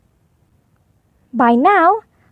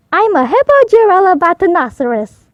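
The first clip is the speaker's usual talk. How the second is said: proudly; 3 semitones higher, 4 dB louder than usual. Acted. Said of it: "Portly said proudly".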